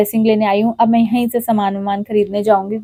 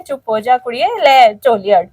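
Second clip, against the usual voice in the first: soothing Guruji. Retold or imitated. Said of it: "मेरे गुरुजी मुझे कह रहे हैं".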